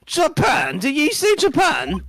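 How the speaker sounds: high, loud disbelief; shocked outburst. Acted. Governor reacts to a visitor from Japan, shocked. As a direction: pitch shoots up in alarmed surprise.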